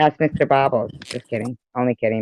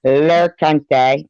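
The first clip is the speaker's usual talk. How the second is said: mock French; much slower than usual.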